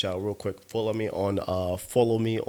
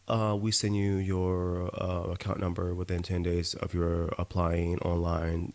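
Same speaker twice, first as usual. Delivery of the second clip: slow, lower voice quoting the agency; mock bureaucrat, slow and lower; mocking official reply; 3 semitones lower, 3 dB quieter, slower than usual. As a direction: read the agency's email like a dull clerk. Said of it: "and I quote".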